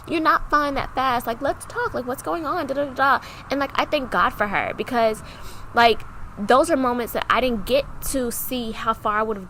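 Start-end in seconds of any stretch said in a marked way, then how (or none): 0.1-3.2 higher-pitched gentle prodding; lightly voiced concerned stepmom; imitated soothing stepmom. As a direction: coax her to open up. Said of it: "talking to her so soothing".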